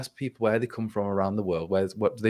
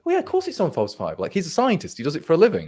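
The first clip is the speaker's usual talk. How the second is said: mock exasperation; 8 semitones higher, 3 dB louder than usual. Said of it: "and I went".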